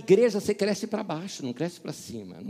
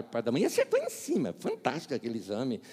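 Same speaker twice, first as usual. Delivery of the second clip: normal talking voice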